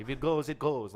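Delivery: put-on half-hearted French accent; lightly attempted, unconvincing French accent; terrible French accent. Guest imitates a Frenchman about losing hair, terrible French accent. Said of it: "That's a terrible French accent".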